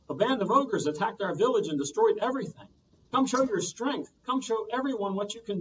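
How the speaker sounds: put-on high, loud pleading old woman; rally him to fight; old woman urging the boy to fight, high; urgent plea. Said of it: "The old woman said".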